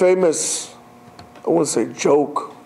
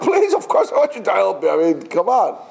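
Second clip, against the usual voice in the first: eager pleading; 3 semitones higher than usual. Retold or imitated. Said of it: "He said".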